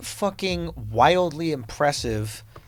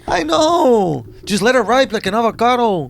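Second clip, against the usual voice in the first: high, loud, joking while laughing; giggling through the joke; 8 semitones higher, 5 dB louder than usual. Real, not acted.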